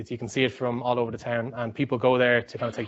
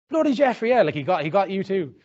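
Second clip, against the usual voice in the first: much higher, louder laughing-edged exclamation; exasperated recognition; 7 semitones higher, 4 dB louder than usual. Retold or imitated. Fellow tourist admits the seller fooled him, high exasperated outburst. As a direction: blurt it out, caught out too. Irish guy recognising the scammer.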